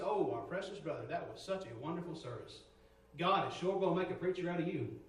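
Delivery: imitating the church ladies. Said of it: "they all come and say".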